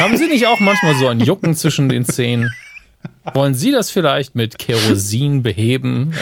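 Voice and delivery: cheesy TV sales pitch; chipper 1950s ad. Pretend. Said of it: "Wollen Sie mir was verkaufen". (fröhliche Werbestimme der Fünfziger)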